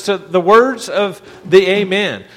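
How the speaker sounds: each word laid down slowly with weight on words; slow, weighted reading. Shown as a demonstration. Pastor to church, slow deliberate reading of the verse. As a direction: read the words of the Amen slowly, pressing on words. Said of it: "it says".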